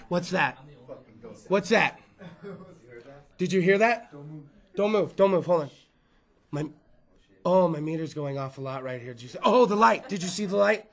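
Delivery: hushed, tense mock ghost hunter; whisper-play a spooked TV ghost hunter; ghost hunter parody. Comic to crowd, parodying ghost hunters, hushed and tense. Mocking ghost hunting show.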